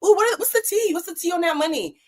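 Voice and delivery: high, gossipy mock whisper-shout; a partygoer spilling tea in a high gossipy voice; nosy gossip voice. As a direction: play the messy partygoer who smells tea. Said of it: "You would be embarrassed ... be like".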